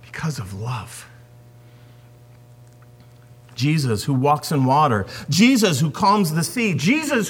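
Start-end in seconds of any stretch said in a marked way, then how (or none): 0.0-1.1 softer still, almost breathed; near whisper. Real, not acted. Preacher repeating to congregation, hushed. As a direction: echo it quieter.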